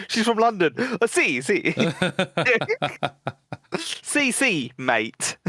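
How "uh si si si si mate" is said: jokey put-on Italian; laughing through a mock Italian accent; playful fake Italian accent; bad Italian accent. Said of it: "Like a worse Italian accent".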